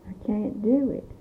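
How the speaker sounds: "do" stressed with a rise after "can't"; emphatic inability. Shown as a demonstration. Stressing the fact that you couldn't, emphasis on "do". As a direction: put the weight on "do". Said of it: "stress the fact that you couldn't".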